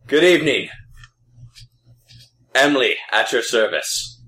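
loud, high gruff dwarf greeting; a cheery, gruff dwarf at the door. Acted. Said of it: "he looks up at you like".

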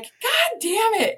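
high, slow swearing; fed-up curse. Retold or imitated. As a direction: drag out the curse in frustration. Cursing after shocks.

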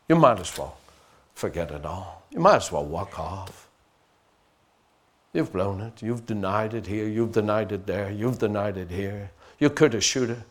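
lightly voiced sneering devil; hushed mocking tempter; voice of Satan. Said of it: "that's the voice of Satan".

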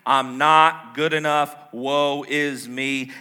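loud, slow, woeful moaning; mock pity-party lament; Eeyore. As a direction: drag out each complaint in hammed-up self-pity. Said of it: "This is my best Eeyore impression".

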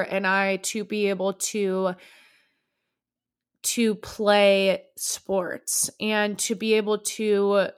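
slow, voice catching with real emotion; choked up, slowly recalling parents' sacrifice; getting emotional. Real, not acted. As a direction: hold back tears as you speak of the sacrifice. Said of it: "Oh my God, I'm gonna get emotional".

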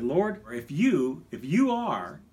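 "you" slow and pressed, testing; "if you, if you are" with "you" hit hard; stress on you. Shown as a demonstration. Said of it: "exactly opposite".

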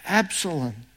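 a father's mournful lament; anguished cry. Acted. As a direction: cry out for a lost son, then let it sink. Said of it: "he cried".

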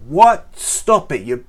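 loud, high, exasperated snap; mock angry telling-off; exasperated outburst. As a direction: lose your temper at the disciples. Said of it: "Jesus doesn't go".

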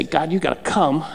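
low, soft plea; subdued quoted prayer. Acted. Preacher quoting a needless prayer to God, subdued delivery.

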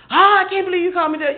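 quick, high put-on indignation; mock offended. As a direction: parrot the offended sinner, fast. Mimicking offended sinner.

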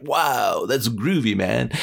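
lightly voiced laid-back hippie; a touch of groovy dude; groovy door. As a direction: stretch the wow, mellow amazement. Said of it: "And the door's like".

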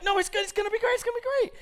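very high, loud, pleading squeal; squeaky mock insistence. Wife reassuring doubtful husband about projector, high frantic insistence.

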